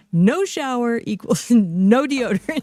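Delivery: slow, laughing through the words; cracking up while reading. Real, not acted. Reading funny post while laughing.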